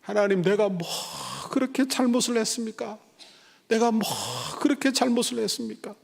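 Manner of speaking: high, anguished plea to God; mock-anguished lament, voice lifted high; pleading complaint. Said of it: "원망과 불평을 털어놓기".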